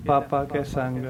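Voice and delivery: ਪਾਪਾ ਕੈ ਸੰਗ with a light, unpressed p; light papa. Shown as a demonstration. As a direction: Gurbani ਪਾਪਾ ਕੈ ਸੰਗ without the dot sound. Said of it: "ਏਦਾਂ".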